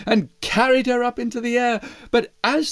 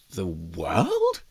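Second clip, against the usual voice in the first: low eagle voice; 5 dB quieter than usual. Acted. Eagle scoffs.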